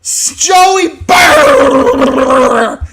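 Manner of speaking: crowd-chant Joey Burrow; drawn-out hype shout. Real, not acted. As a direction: stretch Joey Burrow slowly, yelling.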